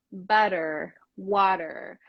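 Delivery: "better, water" with the middle T as a light tap; "better, water", each word set apart, tapped T; tap R sound. Shown as a demonstration. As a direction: flick the tongue once in "better" and "water". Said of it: "already kind of say this sound".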